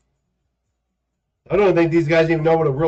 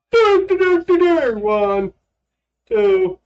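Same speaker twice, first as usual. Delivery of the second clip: doing jumping jacks; 4 dB louder, slower than usual. Pretend. Counting while doing jumping jacks.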